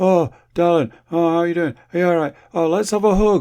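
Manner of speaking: put-on high voice, fighting back tears. Retelling greeting her as she comes into the room, retelling holding back tears. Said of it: "I'm like desperately holding back tears".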